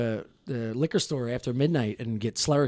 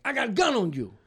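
mugger threat; 9 semitones higher than usual. Retold or imitated.

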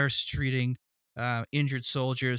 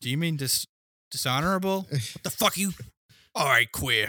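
mock Boston tough guy. Acted Boston tough guy exchange.

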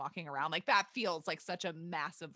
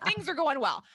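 laughing; 7 semitones higher, 7 dB louder than usual. Real, not acted. Laughing through retold quote.

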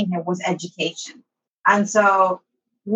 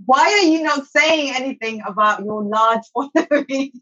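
higher-pitched retold question, emphatic at the start; incredulous friend; 5 semitones higher than usual. Friend questioning her about a large following, incredulous. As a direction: imitate an astonished friend, a laugh slipping in.

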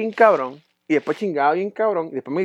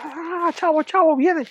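much higher, girly imitation of her; high mocking girlfriend voice; 12 semitones higher, slower than usual. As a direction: squeak it out like his ex. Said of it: "Y ella". (voz aguda imitando a la novia)

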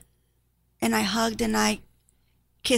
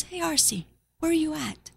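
higher-pitched, cheerful greeting; lifted, happy retold voice; happy mom on phone; 6 semitones higher than usual. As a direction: imitate a happy mother calling her child. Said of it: "she sounds so happy".

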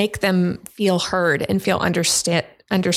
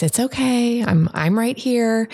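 put-on calm a melting-down kid gently; soothing voice; 4 semitones higher than usual. Shown as a demonstration. Parent soothing an upset kid, soothing. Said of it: "come in with that soothing voice".

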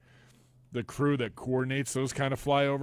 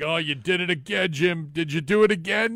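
Romo; 4 semitones higher than usual. Retold or imitated. Acting out Romo jinxing the kicker.

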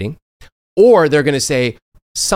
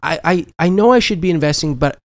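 playing naive; 5 semitones higher than usual. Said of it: "I pretended to not know anything about money".

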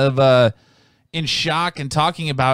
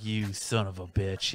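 slow, much softer muttered curse; under the breath; 5 semitones lower, 11 dB quieter, slower than usual. Retold or imitated. Imitating a polite Canadian cursing a guest under the breath. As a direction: swear it quietly under your breath. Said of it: "underneath their breath".

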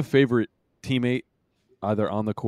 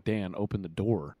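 calm, soft and low; unbothered soft request; 4 semitones lower, 6 dB quieter than usual. Retold or imitated. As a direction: say it as if nothing happened. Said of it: "you made it sound like Dirk was, like, calm".

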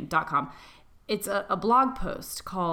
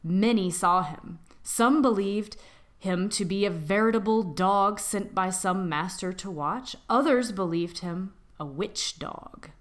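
spooky story narration. Acted. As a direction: draw listeners in with a creepy tale.

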